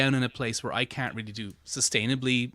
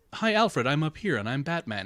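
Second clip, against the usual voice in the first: put-on voice with only a little gravel; 3 semitones higher than usual. Imitating how the Batman actor used to sound: earlier Kevin Conroy Batman voice. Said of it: "he used to be all kinda like".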